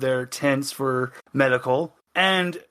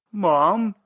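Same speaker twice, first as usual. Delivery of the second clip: a higher, startled call of Mom; a touch of panic, higher; frightened cry; 5 semitones higher, 3 dB louder than usual. Acted. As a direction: blurt it out in panic. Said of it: "you just hear Fang go".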